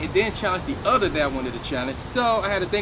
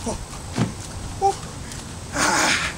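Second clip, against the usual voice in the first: in ice cold water; 3 dB quieter, slower than usual. Real, not acted. Gasping after ice bucket dump.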